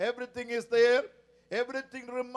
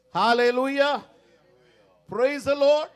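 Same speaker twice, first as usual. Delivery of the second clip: louder exultant praise; loud hallelujah; 8 dB louder than usual. Real, not acted. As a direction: call it out to the church. Preacher exclaims to congregation.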